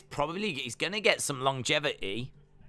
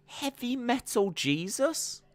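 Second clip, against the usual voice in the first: slow, rising, higher Heavy Metal Jesus; amused disbelief; 8 semitones higher, 3 dB quieter than usual. Real, not acted. Reading the old ring name, amused disbelief. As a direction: savour the absurd name.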